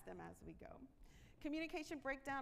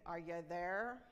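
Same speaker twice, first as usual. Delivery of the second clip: "Are you there?" as a stern demand, there pressed down hard; commanding boss; 4 semitones lower, 6 dB louder, slower than usual. Shown as a demonstration. Boss checking on a worker, said as a stern command. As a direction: bark it like an impatient order. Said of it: "we put that command on the end".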